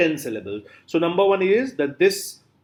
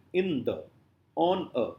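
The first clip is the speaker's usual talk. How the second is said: "in the, on a" with every word light; no weight on either word in "in the" or "on a"; both syllables unstressed; 5 dB quieter than usual. Shown as a demonstration. Teacher giving pyrrhic examples, both syllables unstressed. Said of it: "both are unstressed".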